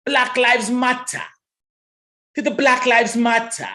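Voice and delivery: "Black Lives Matter" slow with a hard T, matta; slow British Black Lives Matter. Shown as a demonstration. Host mocks UK English: slow matta with hard T. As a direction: draw it out the British way. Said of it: "Talk about Black Lives Matter".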